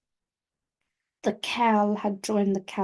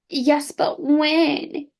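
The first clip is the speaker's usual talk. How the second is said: impatient demand; 5 semitones higher, 3 dB louder, much slower than usual. Acted.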